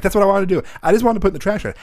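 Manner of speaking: high, loud self-defence; exasperated protest. Retold or imitated. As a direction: act out a frustrated kid pleading his case. Retold exasperated protest to dad.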